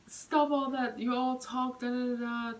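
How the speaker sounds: fed-up rider scolding the ranter; retold telling-off. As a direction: tell him off sharply. Neighbor scolds yelling man.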